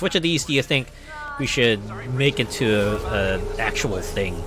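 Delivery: slow, high cheery pitch voice; company voice. Retold or imitated. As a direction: sell it like a friendly brand. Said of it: "just like".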